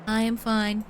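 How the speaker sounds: stately angelic character voice; measured, formal, unhurried; Atir voice. Acted. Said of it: "I like doing her voice".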